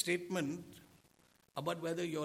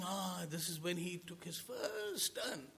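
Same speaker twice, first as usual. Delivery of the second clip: proud parent exclaiming; 3 semitones higher, 4 dB quieter than usual. Pretend. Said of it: "And you're saying".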